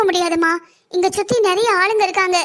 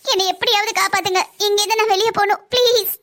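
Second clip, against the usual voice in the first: tearful plea. Acted. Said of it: "அழாத".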